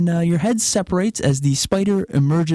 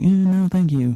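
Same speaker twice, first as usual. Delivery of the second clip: disgusted refusal; 7 semitones higher than usual. Retold or imitated. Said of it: "and I was like".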